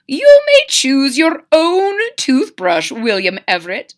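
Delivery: a gentle hint of mama; Mama crocodile voice. Mama lets her son pick a toothbrush, lightly voiced mother.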